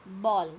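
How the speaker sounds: बॉल with an open, rounded aw; rounded vowel demonstration. Shown as a demonstration. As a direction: firmly model बॉल, lips rounded. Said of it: "मुंह थोड़ा घुमाना पड़ेगा". (बॉल, मुंह गोल करके)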